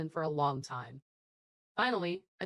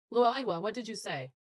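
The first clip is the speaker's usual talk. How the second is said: angry shout; 3 semitones higher than usual. Acted. Angry confrontation over crashed car.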